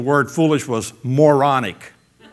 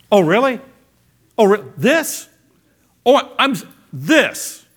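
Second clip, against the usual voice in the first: put-on testing kid; 6 semitones higher, 3 dB louder than usual. Acting out a kid testing limits.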